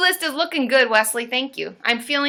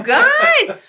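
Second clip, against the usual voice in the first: high, drawn-out gushing; excited amazement; 13 semitones higher, 4 dB louder than usual. Real, not acted. Streamer amazed by viewers' gifts, high slow gushing. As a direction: draw it out high, overwhelmed.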